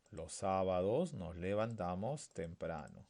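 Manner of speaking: slow but unbroken sentence; unhurried full repetition; measured read-back. Shown as a demonstration. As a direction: read it back slowly in one go. Teacher rereads the whole sentence.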